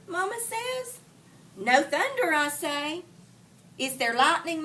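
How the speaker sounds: put-on dramatic read-aloud to children; story reading. A narrator's reading. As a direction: bring the storm scene alive for the class. Teacher reads story scene aloud.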